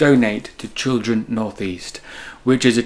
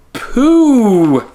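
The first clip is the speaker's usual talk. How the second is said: higher, louder comic burst; gleeful punchline; 11 semitones higher, 8 dB louder than usual. Acted. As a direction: pop the silly word out for a laugh. Punchline reveal to children.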